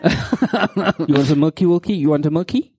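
mock baby talk, questions lifting at the end. Parent offers the child milk, gently mocked baby talk. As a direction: lightly imitate a parent coaxing a toddler. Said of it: "baby language that you think they will understand".

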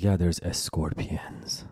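lightly imitated Persian accent, slowed, saying escorpions with an added e; a hint of mom's Persian accent on escorpions; mom's Persian accent, gently mocked. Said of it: "she does have some Persian accent".

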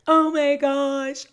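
exaggerated high girlish complaint; imitating young woman. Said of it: "she's like".

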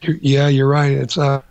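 croaky, rasping sick voice; hoarse voice. Real, not acted. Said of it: "you sound like an old drunk".

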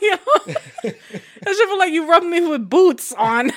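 high, loud, helpless with laughter; cracking-up mock outrage; laughing complaint. Retold complaint while cracking up.

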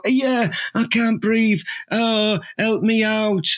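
mock injured whine. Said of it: "hit the deck and go".

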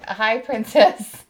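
stretched out slowly, fond; slow doting hello; slow sweet greeting. Shown as a demonstration. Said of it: "That's why I want you to say".

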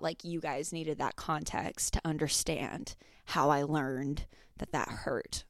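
slow, soft unvoiced whisper; whispered wrap-up. Real, not acted. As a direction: whisper the ending as she trails off. Wrapping up the long story.

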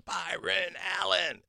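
high, slow, booming showman's greeting; big booming welcome. Retold or imitated. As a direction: announce his arrival like a host throwing the party. Boss greets arriving guest.

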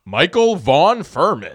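slow, rolled, high pronunciation of Michael Vaughn Furman; announcer drawing out the name in mock Spanish; Spanish-accented name. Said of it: "The rare use of your middle name".

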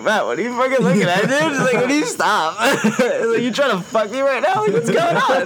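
high-pitched, hammed-up accusing questions; mock paranoid challenge. Stoned man challenging his friend Matt, mock paranoid. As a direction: play paranoid at your friend, pitch climbing.

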